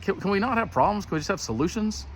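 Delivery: high-pitched retold pleading; imitating an exasperated appeal up high; mock plea. Acted plea to obstructive officials.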